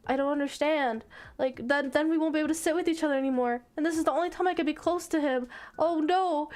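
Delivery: lightly acted freak-out; mild mock panic. Girl fearing the seat change, mildly panicked. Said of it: "she starts freaking out".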